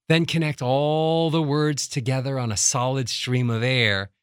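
words run together on one steady breath; connected words. Shown as a demonstration. Coach demonstrating a breath up to the comma, connected flow. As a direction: sustain the vowels, no gaps.

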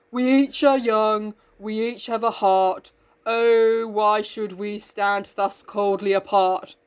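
slow, mumbling, lifeless recital; slug boy voice. Retold or imitated. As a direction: drone it out like a dull slug boy. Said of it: "says it in a real, like, slug boy way".

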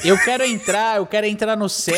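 whiny pleading. Retold or imitated. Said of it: "vai bater ali na porta e vai falar".

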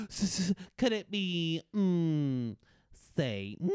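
milk the reveal with a gasp; hammed-up dread. Dramatic echo of Satan moment.

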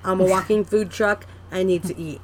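mouth full. Real, not acted. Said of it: "a person that hates chewing sounds, sorry".

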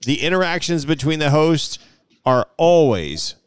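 slow, deliberate read with pauses; measured, drawn-out quote reading; reading a quote aloud. Acted. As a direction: read out the review, lingering on each phrase. Reads a listener's review aloud.

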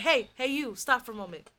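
playful loud hype; mock hype call. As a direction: flag someone down cheerfully. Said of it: "People are like".

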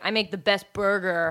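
lightly mocked macho boast; a hint of a chest-pounding bro; Bobby Flay. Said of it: "It's like some kind of macho".

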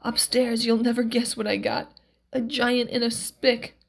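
lightly voiced old miracle man with news; eager old man sharing a secret; Max, cranky miracle man, eager.

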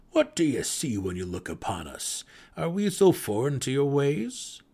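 warm, curious gnome questioning; hearty deep gnome. A narrator's reading. Gnome questions the drow, lightly voiced and hearty. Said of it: "in his hearty, melodic voice".

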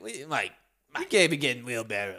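lightly voiced Italian father; gently mock an older Italian dad's scolding; a hint of disbelieving Italian dad. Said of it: "That's how he talks".

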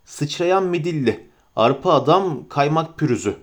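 calm narrator reading the lettering; reading a sign. A narrator's reading. Narrator reading the inn sign aloud, calm and even.

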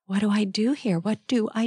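breathy whispered "oh shoot" then a worried, slowed "what do I do"; mild mock panic at a hard choice; panicked inner thought. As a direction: think it in a flustered panic.

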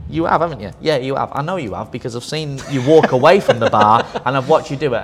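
loud teasing with a laugh. Real, not acted. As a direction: call him out, laughing. Teasing someone present, laughing.

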